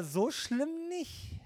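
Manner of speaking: drawn-out "so schlimm nicht", mock dismissive; slow mock shrug; mock downplaying, slow. Quoting self-excusers.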